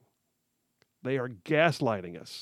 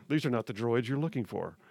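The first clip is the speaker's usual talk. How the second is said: Jedi mind trick; 3 semitones lower, 5 dB quieter than usual. Retold or imitated. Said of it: "all you need is the hand".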